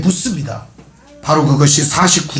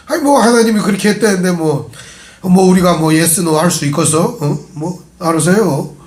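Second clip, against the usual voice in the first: evasive Chungcheong reply. Retold or imitated. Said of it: "충청도스러운 대답을".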